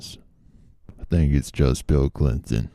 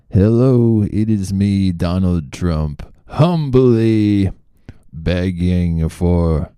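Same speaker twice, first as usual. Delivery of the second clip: Trump impression; 2 semitones higher, 4 dB louder, slower than usual. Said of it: "my Trump impression".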